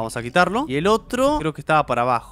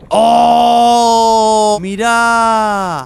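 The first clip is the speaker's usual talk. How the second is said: loud startled cry; shocked outcry; 5 semitones higher, 6 dB louder, much slower than usual. Real, not acted. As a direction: jump at the sight. Sudden scare in game.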